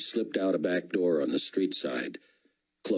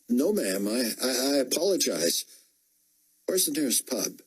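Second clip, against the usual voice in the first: flustered soldier; 7 semitones higher than usual. A narrator's reading. Flustered soldier then Chloe.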